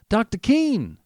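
loud high call across the street. A narrator's reading. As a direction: call out to the doctor, pitched high. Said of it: "he called".

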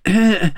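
high little "eh" for a covered sigh; half-hearted cough hiding a sigh; sigh disguised as cough. A narrator's reading. King hides his sigh from the Queen, coughing it away. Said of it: "could not help a sigh, which he tried to turn into a cough".

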